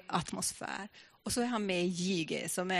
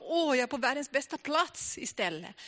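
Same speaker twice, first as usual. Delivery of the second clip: higher-pitched, imitated delight; happy relief; 5 semitones higher than usual. Preacher voicing brother's sudden joy among the children, happily relieved. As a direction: voice his happy realisation, pitched up. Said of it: "han blev helt löst och le-, lycklig".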